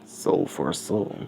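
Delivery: slow, softened echo; hushed echo of the skull's words; single echo. Acted. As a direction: repeat it slowly and softly, like one echo. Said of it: "just one echo".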